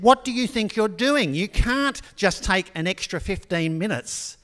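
mock scolding from the exam hall's front; upset professor. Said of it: "The professor was getting really upset".

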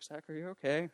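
high, soft check-in; concerned friend. Retold or imitated. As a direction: imitate a friend gently asking after someone. Best friend checking on him.

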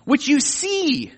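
God rebuking Job over the unseen realm, loud and high; booming God rebuke. Acted. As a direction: confront Job with it, building to a peak. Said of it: "he's showing Job".

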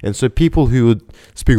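usual speaking voice

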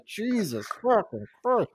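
lightly voiced woman's exasperated cry; a hint of a woman's voice; man doing a woman's voice. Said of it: "your Woman impression".

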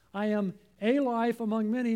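"a" said as a full AY before "life"; stress on A. Shown as a demonstration. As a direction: lean on the word "a" as the wrong article. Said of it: "He didn't say".

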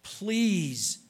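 Please stretched and pushed out loud; Please drawn out with a heavy falling note; stress on please. Shown as a demonstration. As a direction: lean hard on the word Please. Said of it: "and I emphasize the word".

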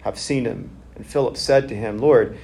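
measured, low scripture reading. Acted. Pastor reading John to the congregation, measured and low.

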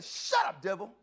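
firm loud rebuke; rebuking the devil. Retold or imitated. Preacher retelling his rebuke to the devil, firm and loud. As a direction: shut the devil down hard. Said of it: "'cause that's who it was".

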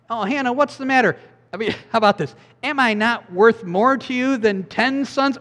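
high-pitched clueless husband, hammed up lightly; mock husband. Preacher mocking Elkanah comforting his wife, lightly hammed. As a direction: play the well-meaning but clueless husband.

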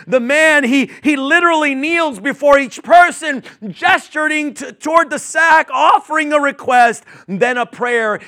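loud, high preaching with shouted peaks; preaching at full force. Acted. Preacher pressing the story on his listeners, loud and rising. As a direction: drive each line home to the crowd.

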